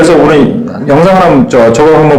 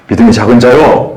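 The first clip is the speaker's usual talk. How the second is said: helping, gentle; 5 semitones lower than usual. Shown as a demonstration. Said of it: "이러면서 도와주는 거".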